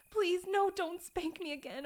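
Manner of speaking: high, loud panicked begging; frightened plea. Acted. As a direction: beg in fear.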